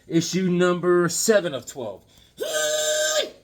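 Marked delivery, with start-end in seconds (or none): 2.4-3.3 a cowboy-style hoo-wee of delight; hoo-wee whoop. Real, not acted. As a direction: whoop it up high. Comic book hype exclamation.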